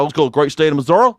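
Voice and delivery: quick Missouri twang, "Mizzorah"; hammed-up Missouri accent. Comedian inviting folks along, hammed-up Missouri accent. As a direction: rattle it off fast in a mock Missouri accent. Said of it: "We call it Warsh in Missouri".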